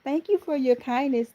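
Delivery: high-pitched teasing imitation; Angela's catchphrase. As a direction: lift it high, playfully mimicking a friend. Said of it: "She always said it".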